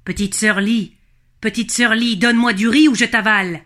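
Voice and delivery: a mild mock roar of a dragon. River dragon threatens to swallow Lee, mild mock roar. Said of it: "bondit en rugissant".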